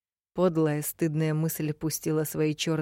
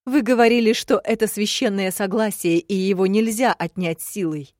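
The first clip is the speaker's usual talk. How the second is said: defiant appeal; 5 semitones higher, 7 dB louder than usual. A narrator's reading. Heroine defiantly arguing.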